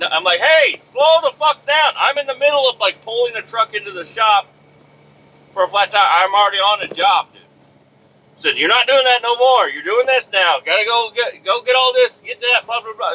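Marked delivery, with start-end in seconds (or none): 0.4-7.4 high, raised pushback on a pushy caller; exasperated retort. Retold or imitated. Driver to a pushy caller mid-job, exasperated retort. Snapping back at demanding caller. 8.6-13.1 higher-pitched frantic ordering-about; going crazy. Retold or imitated. Caller piling new orders on the driver, going crazy. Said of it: "going fucking crazy".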